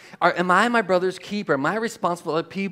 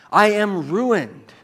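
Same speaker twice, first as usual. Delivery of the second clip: slow, drawn-out cry of ruin; 4 dB louder, much slower than usual. Acted. Preacher reads Isaiah's cry before God, crying out. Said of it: "Isaiah cried out".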